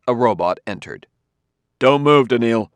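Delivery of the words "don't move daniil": sudden louder, higher cry; urgent shout to freeze; cried out. A narrator's reading. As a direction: cry out the command to stop him. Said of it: "cried Bailey".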